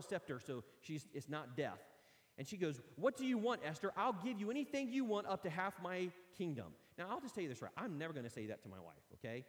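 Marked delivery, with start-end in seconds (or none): 3.0-6.7 eager king. Acted. King eagerly offers Esther anything.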